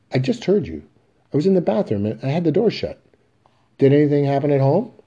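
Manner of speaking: put-on young Biff pressing his father; anxious dialogue. Biff and Willie at door.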